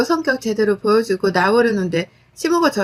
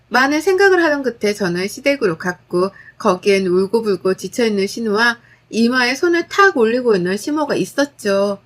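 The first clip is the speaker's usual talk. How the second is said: ordinary delivery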